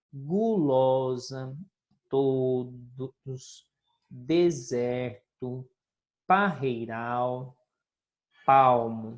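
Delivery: each word drawn out slowly for the class; slow word demo. Shown as a demonstration. Teacher showing pupils the highlighted words, slowly. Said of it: "algumas palavrinhas".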